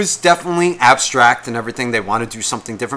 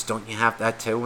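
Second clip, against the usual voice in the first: soft, hushed question; confiding undertone of a retold whisper; imitated whisper; 3 semitones lower, 9 dB quieter than usual. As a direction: ask it low, just between the two of you. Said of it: "he whispered".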